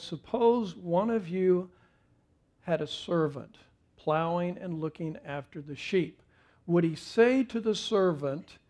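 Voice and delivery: P=A; reading scripture. Shown as a demonstration. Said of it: "notice that he changes from second person".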